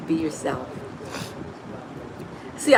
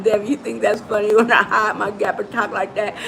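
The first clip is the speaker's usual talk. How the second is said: laughing as she speaks; teasing through a laugh; laughing at the viewer. Real, not acted. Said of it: "Debbie's laughing".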